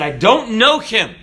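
mock-vehement disowning; emphatic denial. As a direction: deny it forcefully, pitch jumping up. Acts out Peter cursing, denying Jesus.

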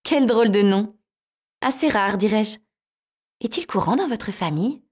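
high, bright little mouse; squeaky mouse voice. Acted. Mouse voiced in fairy tale.

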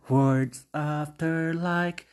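nome da música bem arrastado; lento e enfático. Real, not acted. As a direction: anuncia devagar, com peso. Anuncia segundo lugar. (bem devagar, com ênfase)

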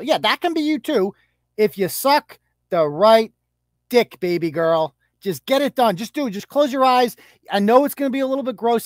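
lightly voiced mock reassurance; mock coaxing. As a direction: coax her like a pushy aunt. Mock coaching the little girl.

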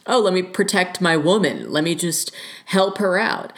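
mocking boyfriend. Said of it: "That's what I was telling him".

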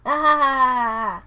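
loud forced laugh; fake laugh. Answering mom's translation, loud fake laugh. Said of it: "and I'm like".

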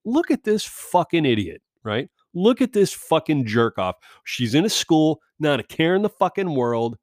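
sneering inner monologue at the stranger; contemptuous inner voice. Retold or imitated. Silently mocking the unmasked parent, a contemptuous sneer. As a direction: scoff at her in your head. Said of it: "This is what's going on in my head".

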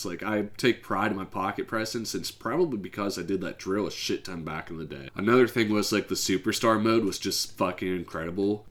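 hoarse, croaky sick voice. Real, not acted. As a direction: talk through a sore sick throat. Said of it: "I sound like a fucking dying Psyduck".

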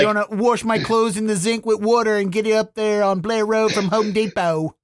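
broad Baltimore accent, vowels stretched out; Dundalk accent. Shown as a demonstration. Host showing off the hometown accent to the chef, broad Dundalk accent. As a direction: lay on thick Dundalk vowels in one long run. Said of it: "perfect that accent and just have it".

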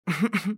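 short acted ahem; throat clearing. A narrator's reading. Mouse about to question the duck, clearing throat. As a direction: clear your throat before speaking up. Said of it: "موشه گلوشو صاف کرد".

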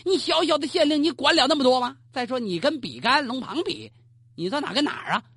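不屑地训斥小县令; 恼怒斥责. Acted. 皇帝气恼斥责朱云. (皇帝气恼地训斥朱云)

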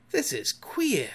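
high, slow astonishment; gasped. A narrator's reading. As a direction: gasp it in bewilderment. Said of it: "Smee gasped".

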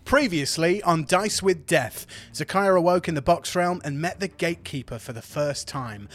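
steady story recap narration; previously on recap. A narrator's reading. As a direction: narrate the recap over music.

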